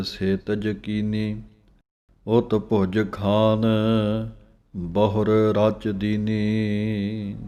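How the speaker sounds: slow, measured chanting of scripture; slow Gurbani recitation. Shown as a demonstration. Teacher reciting the verse slowly for students to follow. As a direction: recite each phrase slowly with pauses.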